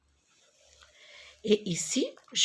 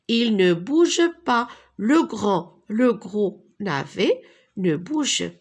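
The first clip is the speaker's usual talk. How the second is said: emphatic storytelling; 5 dB louder than usual. Acted. Teacher reads story emphatically.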